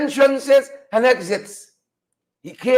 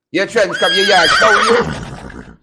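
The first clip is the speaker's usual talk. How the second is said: Rickford Burke impression; 3 semitones lower, slower than usual. Host mimics Rickford Burke scolding Ortega, in a light mock voice. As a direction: jeer it the way Rickford Burke would, only a hint of him. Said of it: "In my Rickford Burke voice".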